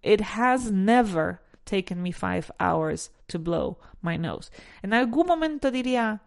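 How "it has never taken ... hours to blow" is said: slow model sentence with the stress on "has"; slow, clear teacher model; correct model, slow. Shown as a demonstration. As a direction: read "It has never taken me five hours to blow" slowly, stressing "has". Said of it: "ponemos esa partícula negativa en el never".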